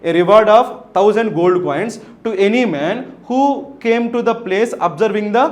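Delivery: very slow, word-by-word reading. Shown as a demonstration. Teacher reads the emperor's offer slowly to the class. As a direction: read it out slowly so students follow.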